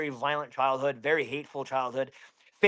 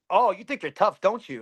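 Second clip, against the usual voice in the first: higher, imitated bully's taunt; retold taunt; 4 semitones higher than usual. Bully challenging the angry thirteen-year-old, mock taunt. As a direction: goad him like the older kid.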